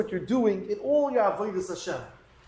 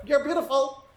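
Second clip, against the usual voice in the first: parrot. Acted. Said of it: "pass by the parrot".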